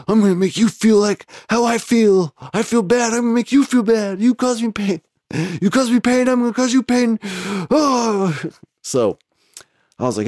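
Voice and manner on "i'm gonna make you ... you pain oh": tag. Retold or imitated.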